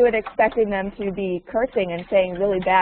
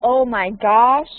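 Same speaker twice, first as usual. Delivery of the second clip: slow, louder quoted exclamation; American guy impression; 2 semitones higher, 6 dB louder, slower than usual. Teacher showing what he says instead of cursing, mild impression. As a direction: draw out the exclamation, lightly imitating him. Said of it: "He's saying, like".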